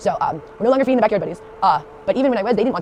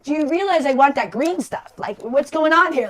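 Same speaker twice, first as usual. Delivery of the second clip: higher, slow pleading bunny voice; voicing the rabbit Casper; 7 semitones higher, 5 dB louder, slower than usual. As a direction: plead slowly, as the confused rabbit. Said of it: "He's like".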